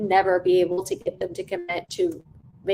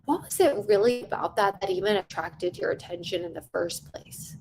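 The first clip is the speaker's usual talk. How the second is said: curious sales question. Shown as a demonstration. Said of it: "I'm asking for contact".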